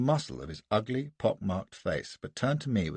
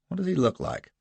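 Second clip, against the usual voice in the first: higher, pressing question; urgent question; 7 semitones higher than usual. Acted. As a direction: demand it with sudden interest. Gardner, urgent.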